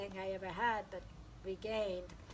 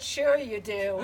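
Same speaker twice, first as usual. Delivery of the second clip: laughing disbelief; 7 semitones higher, 16 dB louder, slower than usual. Real, not acted. Retells her disbelief.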